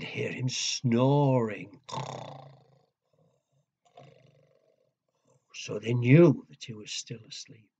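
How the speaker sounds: put-on lively storyteller voice for kids; reading to children. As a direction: build suspense like bedtime story.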